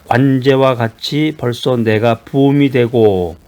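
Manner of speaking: slow, solemn verse reading; 천천히 엄숙하게 성경 낭독; scripture reading. Acted. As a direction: read it as holy words, slowly. Reads scripture verse aloud.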